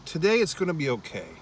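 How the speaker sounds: soft, hopeful inner voice; quiet self-comfort, a touch hopeful; inner reassurance. Retold or imitated. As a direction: talk yourself into it gently. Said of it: "something inside me was saying".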